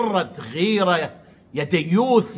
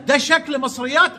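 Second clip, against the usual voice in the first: higher, mock-shocked question; mock astonishment; 7 semitones higher than usual. Vlogger imitating Amr's shocked question, mock astonishment. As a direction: parody his surprised disbelief. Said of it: "مستغرب".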